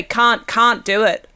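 slow Australian can't do it; slow, careful Australian can't; Australian accent. Shown as a demonstration. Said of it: "I think I worked out it's the wrong way".

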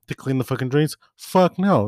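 high, loud, explosive no; furious refusal. Retold or imitated. Refusing the supervisor's drain duty, high loud outburst. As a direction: blow up on the last two words.

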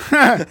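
loud, high yelped "ah". Retold or imitated. Podcaster imagining slimmed-down coworker, high chihuahua-like yelp. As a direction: squeak the breath out like a chihuahua. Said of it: "Just be a higher pitch".

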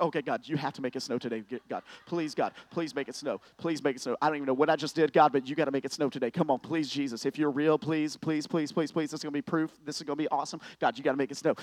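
fast, pleading, begging burst; frantic prayer. Retold or imitated. Student praying hard for snow, fast and pleading. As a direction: beg God over and over, rushing.

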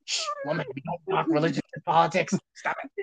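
mock scolding. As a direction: shush her like a prissy scold.

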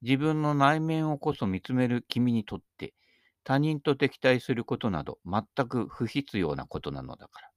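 measured, solemn recitation of a maxim; formal reading. Acted. Reads a quoted maxim.

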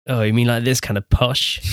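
lightly hammed-up posh English; mock posh Queen's English; exaggerated posh accent. Shown as a demonstration. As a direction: put on a touch of over-posh British. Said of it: "That's too posh".

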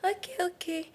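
high, startled surprise; retold flustered surprise, high-pitched; surprised. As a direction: act caught off guard, pitch jumping up. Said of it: "I was like".

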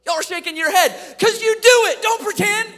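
high, shouted playful accusation; loud accusing. Real, not acted. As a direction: call out the crowd at full volume. Calling out the laughing audience.

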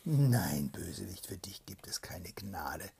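loud whispered refusal; stern whispered shout. Acted. Princess refusing mercy to the soldier, loud whispered shout. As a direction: spit out the refusal. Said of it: "schrie Jelena die Weise".

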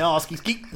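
"Oh, skeet, skeet" sung out in a rapper's way; the proper skeet. Shown as a demonstration. Friend showing the right way to say skeet, chanted. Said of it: "you gotta say it a certain way".

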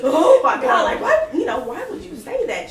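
high laughing retelling of hurt; mock hurt, laughing. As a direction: laugh through a wounded question. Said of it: "And I was like".

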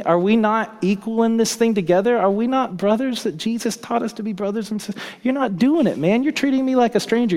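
rising to a high, loud protest, easing off at the end; indignant hurt. Retold or imitated. Disciple confronting James and John, indignant and hurt. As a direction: push it up hard, then let it sag. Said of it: "disciples became indignant, angry".

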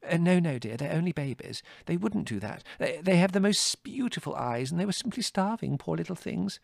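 high, fussing motherly voice; gentle, flustered mother. A narrator's reading. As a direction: plead tenderly for the babies. Mother defends the owlets.

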